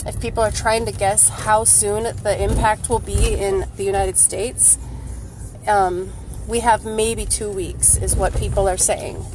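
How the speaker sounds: jostled voice in a bumpy car; on a bumpy road. Real, not acted. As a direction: talk while the car bumps. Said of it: "sorry for the bumps that I'm going over".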